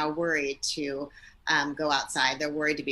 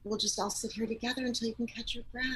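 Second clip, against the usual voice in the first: soft soothing parent; 3 dB quieter than usual. Shown as a demonstration. Parent calming breathless daughter.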